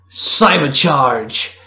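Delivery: long drawn-out battle cry; slow heroine call. A narrator's reading. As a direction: stretch the power-up word out. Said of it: "she called out".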